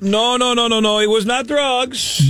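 bad fake Canadian accent; a hammy Canadian accent. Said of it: "the worst Canadian accent ever".

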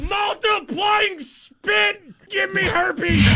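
high, very slow shouted doom; horror trailer voice. Pretend. Mock dramatic warning.

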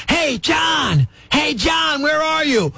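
hushed yell across a theater; stage-whisper a shout for a friend. Retold or imitated. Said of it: "they start whisper yelling".

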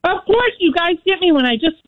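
talking through a mouthful of food; eating while talking; mouth full. Real, not acted. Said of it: "I just filled my mouth full of food".

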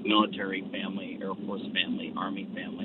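drifting away from the mic; phone held away. Real, not acted. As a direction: voice fading off the phone. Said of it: "We're kinda losing you a little bit".

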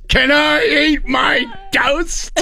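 high, slow, exasperated shout; dad yelling back at the mom over breakfast. Retold or imitated. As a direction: bellow it over your shoulder, fed up. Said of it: "he turns around and goes".

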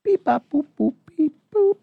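high, beeping toy robot. Pretend. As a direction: chirp it like a little robot.

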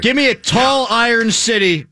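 shouting. Real, not acted. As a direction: belt it out in the beer debate. Beer rivalry argument.

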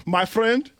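light Nigerian accent on "my friend". Shown as a demonstration. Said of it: "that's how you say it".

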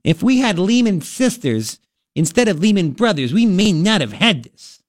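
lightly mocking politician voice; a hint of derisive caricature; mock Kirsten Gillibrand. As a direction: mimic her speech in a put-on voice. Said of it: "how shrill is she?".

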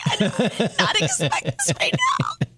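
high, laughing through tears; retelling her happy crying on the phone. Retold or imitated. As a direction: choke out gratitude while sobbing. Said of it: "And I started bawling".

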